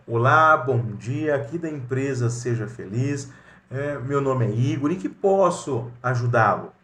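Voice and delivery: polite receptionist greeting with a bright hello; professional phone greeting. Shown as a demonstration. Igor greeting a client on the company phone, courteous and professional. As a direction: open with a friendly hello, then offer help. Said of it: "Olha o profissionalismo".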